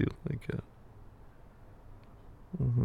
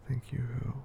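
whispering. Acted. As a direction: whisper the question close. Whispered prompt, then repeated aloud.

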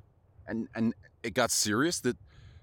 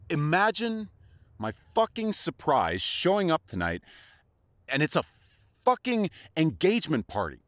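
bitter anger; 4 semitones higher, 3 dB louder than usual. Acted. Bitter confrontation over engagement.

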